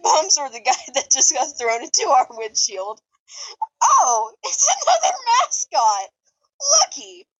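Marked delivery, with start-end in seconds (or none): 3.8-7.3 laughing through the line. Acted. Narrator laughing through character line.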